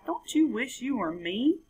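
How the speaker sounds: high, dismissive sing-song; smug frog. Acted. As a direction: brush it off with smug pity. Frog taunts capybara.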